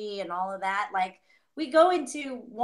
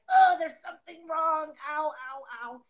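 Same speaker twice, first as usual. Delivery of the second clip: body in alarm; 5 semitones higher than usual. Acted. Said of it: "Then the body's like".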